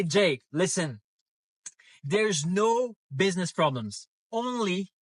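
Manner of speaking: jolted mid-sentence by a bump; on a bumpy road. Real, not acted. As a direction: voice jarred by a pothole. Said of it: "sorry about that".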